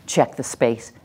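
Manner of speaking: measured, certain instruction; assertive. Shown as a demonstration. Teacher telling the class how to line up, assertive. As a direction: give directions with no doubt. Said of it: "which is my assertive voice".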